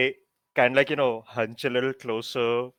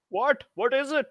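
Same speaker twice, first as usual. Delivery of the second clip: higher-pitched, mildly exasperated character voice; put-upon questioning; 12 semitones higher than usual. Acted. Hero interrupted before the juniors asks what they want, put-upon. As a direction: ask as if interrupted mid-speech.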